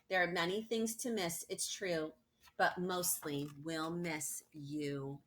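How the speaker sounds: poem recital. Acted. Reads the class poem.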